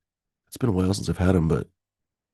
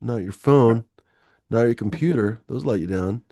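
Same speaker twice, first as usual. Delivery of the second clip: mock ad read; 2 semitones higher than usual. Streamer pitching bananas as sponsor, in a mock ad voice. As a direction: sell it like a cheesy commercial. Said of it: "another sponsor segment".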